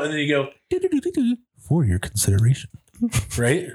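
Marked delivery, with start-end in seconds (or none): 0.7-2.7 NPR jingle. Pretend.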